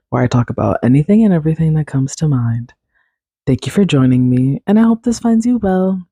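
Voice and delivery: bright, upbeat show opening; podcast host intro. Acted. Host welcoming listeners to Kaylin's Corner, upbeat intro.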